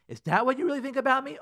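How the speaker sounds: high-pitched indignant question; acted-out wounded outrage; offended challenge. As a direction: react as if personally insulted. Opposed offended reaction to spouse.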